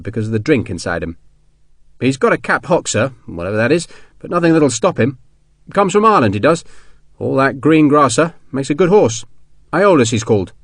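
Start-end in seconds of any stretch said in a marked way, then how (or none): 2.0-10.5 eager horse-seller's patter in a lightly voiced sergeant; a hint of a soldier selling a horse. Sergeant telling his colonel about the horse, lightly voiced.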